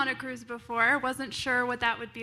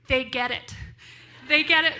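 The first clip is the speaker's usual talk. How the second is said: excited realization; 3 semitones higher, 8 dB louder than usual. Retold or imitated. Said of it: "and I'm like".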